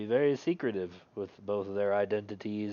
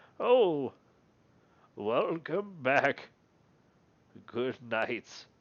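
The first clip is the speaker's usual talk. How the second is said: put-on drowsy, slow, lazy old man voice, barely roused; 4 semitones higher than usual. Voicing a just-woken old man greeting the players: lazy old man character. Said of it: "a lazy old man look up and he says".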